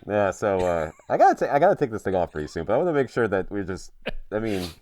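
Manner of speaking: muffled behind a hot mask; inside a rubber mask. Real, not acted. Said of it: "All right, I'm taking it off".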